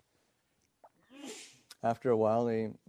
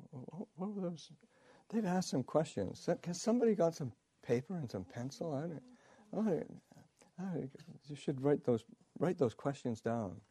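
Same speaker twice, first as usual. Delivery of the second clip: Ajahn Chah voice; 6 semitones higher than usual. Retold or imitated. Ajahn Chah voiced asking questions.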